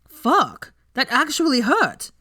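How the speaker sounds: loud yelp of pain; pained shout. Acted. Malfoy bitten by Granger, crying out in pain. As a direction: shout it out, stung by the bite.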